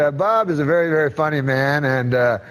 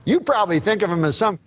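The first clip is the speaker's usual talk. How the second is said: lightly raised folksy announcer voice; Uecker impression; 4 semitones higher than usual. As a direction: tell it like a chatty old ballplayer. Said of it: "I just love those Euchre impressions".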